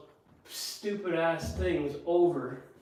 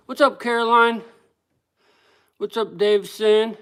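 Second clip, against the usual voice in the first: excited greeting; 5 semitones higher, 9 dB louder than usual. Real, not acted. Loud high greetings to pets.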